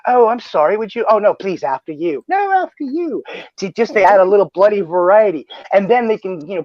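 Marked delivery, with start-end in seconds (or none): 0.1-3.2 prim, overly courteous gentleman; polite gentleman voice. Retold or imitated. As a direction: fuss over manners like a fussy butler. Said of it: "they're talking like they're the perfect, overly polite gentleman".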